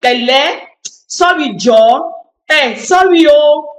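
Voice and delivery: offhand, mock-sorry demonstration; sarcastic apology. Shown as a demonstration. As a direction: toss out an insincere sorry with light sarcasm. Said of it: "with sarcasm, it wound the person more".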